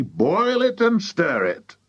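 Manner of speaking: high, stretched-out order; excited cry. A narrator's reading. Mister Cranky directing George, drawn-out excited cry. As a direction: cry it high and slow, with relish. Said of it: "cried Mister Cranky".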